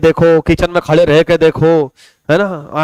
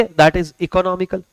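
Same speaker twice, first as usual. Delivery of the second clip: slow definition; 4 dB quieter, much slower than usual. Shown as a demonstration. Teacher spelling out the term.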